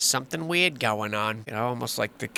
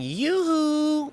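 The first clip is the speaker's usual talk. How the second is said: high, sustained yoo-hoo call; playful calling out; 13 semitones higher than usual. Pretend. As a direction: sing out high to hail someone far away. Calling out playfully over photo.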